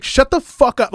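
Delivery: high, loud mock snap; comic snapping. Comic snapping at a heckler, loud mock yell.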